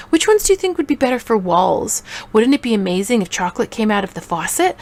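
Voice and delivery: mildly hammed-up wonder; acted delight, playing along; playful excitement. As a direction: spin a fantasy for a child, playfully. Mom playing along with child's fantasy.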